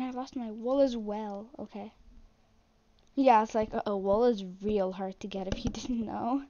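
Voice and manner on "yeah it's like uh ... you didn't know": loud "yeah", then dry sarcasm; sarcastic, with a small laugh near the end. Real, not acted. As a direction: state it as if it were news, mocking lightly. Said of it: "Total sarcasm".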